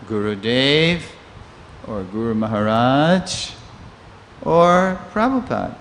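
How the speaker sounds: slow, hesitant, thinking it over; considering. Retold or imitated. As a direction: weigh each name slowly, then lift on the last. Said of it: "from trying to brush it off to considering".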